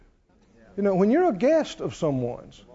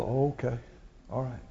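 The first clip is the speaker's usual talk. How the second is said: much softer and lower, a quiet polite acceptance; hushed okay; 7 semitones lower, 12 dB quieter, faster than usual. Retold or imitated. A guest quietly accepts a warning at the table, hushed. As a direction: murmur it so only your neighbour hears. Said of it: "You go".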